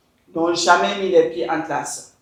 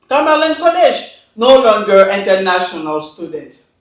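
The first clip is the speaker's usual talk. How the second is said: louder, emphatic read of the email, words driven home; reading the email aloud; 5 dB louder than usual. Retold or imitated. Reading the Canadian school's email to the audience, loud and emphatic. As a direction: read it out forcefully, as if exposing it. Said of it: "Écoutez-moi bien et lisez avec moi".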